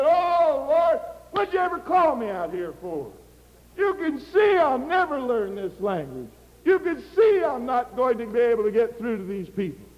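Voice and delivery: missionary crying out to the Lord on his bed, high and pleading; despairing cry to God. Retold or imitated. Retold despairing prayer after crying.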